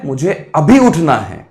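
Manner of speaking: slow, firm self-command; insistent retort. Acted. Student overruling the lazy brain, slow insistent retort. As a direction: stretch it out as a determined answer. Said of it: "दिमाग कहेगा".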